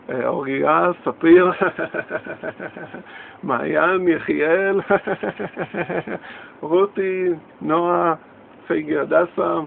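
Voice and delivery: reading names through bursts of laughter, loud; laughing voice. Pretend. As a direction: giggle out each name. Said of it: "בקול של צחוק כזה". (בקול צוחק ורם)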